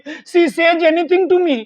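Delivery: very slow, evenly spaced words; slow model line. Shown as a demonstration. Teacher slowly voices the wife's English complaint. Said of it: "अब इसकी English क्या बनेगी".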